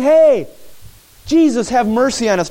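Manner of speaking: loud, high "Hey", then easing slightly; acted yell. Blind men calling after Jesus for mercy, acted yell. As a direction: imitate men yelling for attention. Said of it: "They're yelling".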